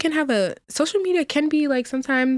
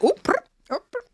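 a rapper impression; 11 semitones higher, faster than usual. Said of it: "She be like".

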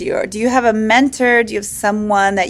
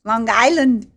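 Long Island said with a light New York drawl on the vowels; Long Island accent; slower than usual. Shown as a demonstration. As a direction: show him how a Long Islander says Long Island. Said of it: "That doesn't sound like Long Island".

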